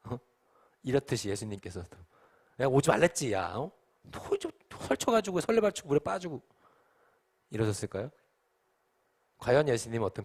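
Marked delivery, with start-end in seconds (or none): 2.6-6.4 mild, playful telling-off; half-hearted imagined scolding; mock scolding. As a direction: grumble like an exasperated master. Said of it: "화내는 표정일까요".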